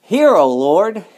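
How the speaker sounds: loud, slow plea lifted high; crying out to God. Acted. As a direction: cry it out to the Lord, slowly. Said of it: "We cry out".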